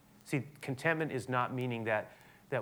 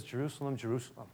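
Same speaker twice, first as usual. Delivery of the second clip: softer, grieving lament; a touch of heartbroken pathos, softer; sorrowful Jesus; 4 dB quieter than usual. Retold or imitated. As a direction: mourn for Jerusalem like a longing parent. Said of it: "he says".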